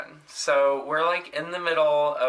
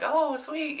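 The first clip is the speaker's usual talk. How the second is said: very high, bright oh sweet; fake enthusiasm; 12 semitones higher, 3 dB quieter than usual. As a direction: play along with forced delight. Feigned enthusiasm at double date.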